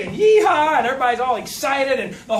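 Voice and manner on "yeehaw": whooped high and loud with a laugh; hammed-up cheer, laughing through it; mock yeehaw. Mimicking the cheering couples at the meeting, loud mock whoop. Mocking excited seminar crowd.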